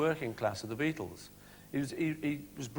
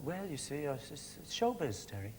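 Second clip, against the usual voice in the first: put-on Irish accent; 6 dB quieter than usual. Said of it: "You're, you're slipping into a Welsh accent there".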